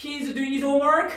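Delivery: pitch lifting up on "homework". English conversation lesson, statement as question: rising pitch on homework. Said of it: "이렇게 평서문에서 끝을 올리라고요".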